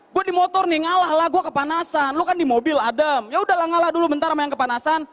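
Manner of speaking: high whiny plea to give way; pleading biker. Retold or imitated. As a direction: beg the car to yield, voice up. Pleading with car driver.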